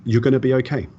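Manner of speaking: a hint of his late brother promising it'll be fine; brother's voice. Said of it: "I hear my brother's voice".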